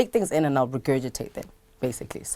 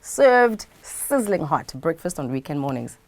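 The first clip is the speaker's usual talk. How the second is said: show plug. Acted. Plugging her weekend breakfast show like an ad.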